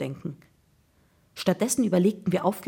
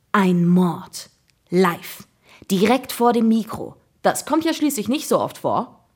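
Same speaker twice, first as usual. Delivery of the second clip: excited chatter; 3 semitones higher, 5 dB louder than usual. A narrator's reading. Jakob telling his friends about a murder, excited. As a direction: build from weighty reveal to eager babble. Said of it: "plapperte Jakob aufgeregt weiter".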